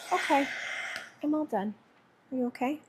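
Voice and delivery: sweet sing-song to the cat. Real, not acted.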